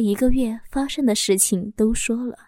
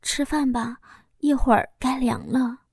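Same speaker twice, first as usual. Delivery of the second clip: careful; 2 semitones higher than usual. Acted. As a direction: gently coax him to eat. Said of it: "小心地对老公说道". (小心翼翼地劝丈夫吃早饭)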